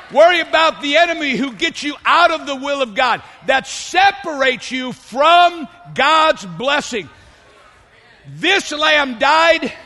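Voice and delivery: shouted pulpit cry; shouting preacher. Real, not acted. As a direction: preach it out at full force.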